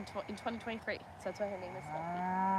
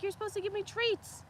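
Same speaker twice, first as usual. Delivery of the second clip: voicing the steer; 10 semitones higher than usual. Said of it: "He's like".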